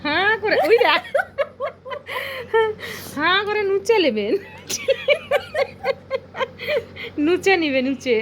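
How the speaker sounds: high, giggly squeal of amusement; laughing tease. Real, not acted. Warning that open-mouthed Poko will scratch, laughing and high.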